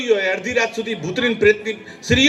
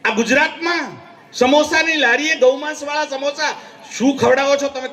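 a preacher's sudden cry of disgust; indignant shout; 4 semitones higher than usual. Real, not acted. Preacher to his audience about beef samosas, an indignant shout. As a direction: raise the voice in outrage over the samosa scandal.

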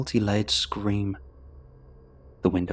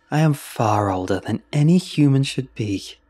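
cackling; 4 semitones higher, 6 dB louder than usual. Acted. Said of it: "she cackled".

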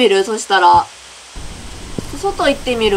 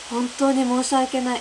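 softer, barely audible apology; small apologetic voice; 8 dB quieter than usual. Retold or imitated. Owner apologising to the tenant in a small, soft voice. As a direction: mumble the apology under your breath. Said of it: "最後、小さい声で".

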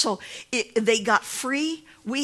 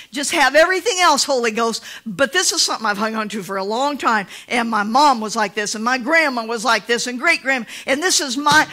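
loud pleading voice guarding his stash; a mock protective believer; stubborn believer; 4 semitones higher, 10 dB louder than usual. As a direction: plead to keep one drawer. Preacher voicing stubborn believer.

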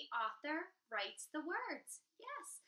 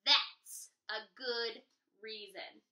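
troll voice; 3 semitones lower, 4 dB louder, slower than usual. Acted. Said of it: "said the troll".

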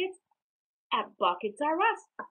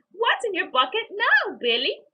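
giggling mom; 9 semitones higher, 6 dB louder than usual. A narrator's reading. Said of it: "his mom giggled".

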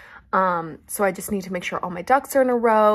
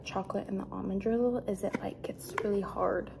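whisper; 7 dB quieter than usual. Real, not acted. Describing dessert, hushed.

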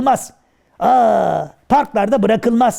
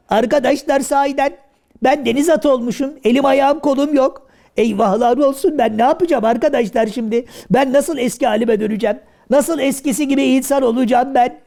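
panicked; 3 semitones higher than usual. Acted. Karagöz frets to the kids about his new form. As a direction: fret aloud about being changed.

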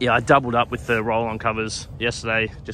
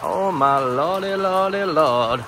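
slow, drawn-out wail rising higher; dismayed exclamation; 4 semitones higher, 3 dB louder, much slower than usual. Real, not acted. Groundskeeper seeing rain before a grand final, long dismayed exclamation. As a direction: stretch each word out in dismay.

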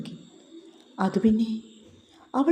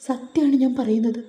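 tearful outburst; 3 semitones higher than usual. Acted. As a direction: pour it all out, on the verge of crying. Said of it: "പൊട്ടിക്കരഞ്ഞു".

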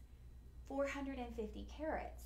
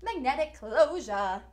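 excited; 2 semitones higher, 13 dB louder, slower than usual. Acted. Product host showcasing feature.

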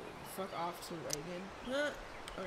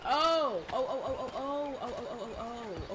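excited realization; 3 semitones higher, 6 dB louder than usual. Real, not acted. Sudden realization.

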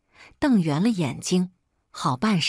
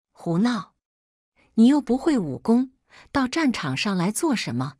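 stern scolding; 5 semitones higher than usual. A narrator's reading. Husband scolds wife for coming to the battlefield, sternly. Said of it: "裴耀眼睛一瞪".

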